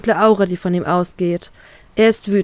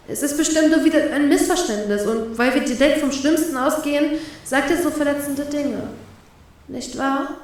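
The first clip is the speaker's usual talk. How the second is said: softer, pained, close to crying; near tears; 4 semitones higher, 4 dB quieter than usual. A narrator's reading. Heartbroken woman pleads with herself, near tears. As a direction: plead with yourself, fighting tears. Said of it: "gequält den Tränen nahe".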